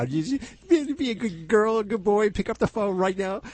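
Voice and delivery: put-on high goofy baby talk to listeners; Adam Sandler voice. Host urging callers in a high goofy baby-talk voice. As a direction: coax callers like pets, high and silly. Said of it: "You sound like, what, Adam Sandler".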